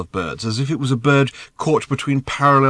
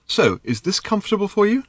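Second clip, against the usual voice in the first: higher, pleasant tenor lilt; pleasant light tenor; 10 semitones higher than usual. A narrator's reading. Bird checking its voice is comfortable, light tenor. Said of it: "in a pleasant, light tenor".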